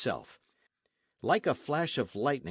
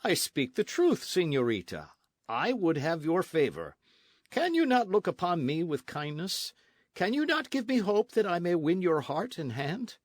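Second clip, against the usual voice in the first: ardent captain pleading, pitch lifted; insistent suitor; 6 semitones higher, 3 dB louder than usual. Acted. Captain asks the señorita for her favor, insistent pleading. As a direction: press your suit with rising urgency.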